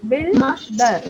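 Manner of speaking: बिल्डर split as बिल, pause, डर; teacher's syllable demo of बिल्डर; two syllable groups. Shown as a demonstration. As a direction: break बिल्डर into two separate beats. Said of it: "इसमें भी दो group बन रहे हैं".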